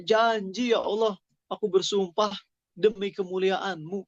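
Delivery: pleading oath. Retold or imitated. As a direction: swear it desperately, voice lifted.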